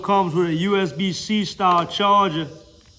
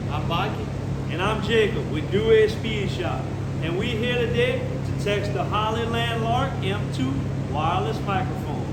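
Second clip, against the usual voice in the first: distant phone-mic pickup with a fan running; through phone microphone; 4 dB quieter than usual. Shown as a demonstration. Shop hosts testing sound for viewers, through phone microphone. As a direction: sound like a quieter recording on a phone's built-in mic. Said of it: "listening to us through the iPhone thirteen's microphone".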